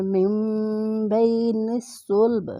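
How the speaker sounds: सुल्ब ending on a closed "sulb" with no vowel; pause form. Shown as a demonstration. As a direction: stop on सुल्ब with a silent final b vowel. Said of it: "अगर वक़्फ़ करेंगे तो फिर पढ़ेंगे".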